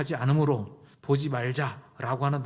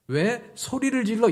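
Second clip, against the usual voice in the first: high, loud, drawn-out challenge; slow indignant demand, pitched up and forceful; angry protest; 9 semitones higher, 5 dB louder, slower than usual. Shown as a demonstration. Wife objecting to husband's shouting, angry loud challenge. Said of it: "이렇게 화를 내야죠".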